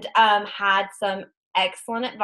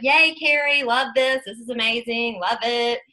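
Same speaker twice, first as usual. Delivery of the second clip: cheerleader gushing. Retold or imitated. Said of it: "everybody's kind of a cheerleader down here".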